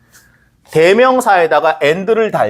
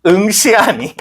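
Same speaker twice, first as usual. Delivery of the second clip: stiff translation voice; much slower than usual. Shown as a demonstration. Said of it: "번역을 하면 어떻게 돼요".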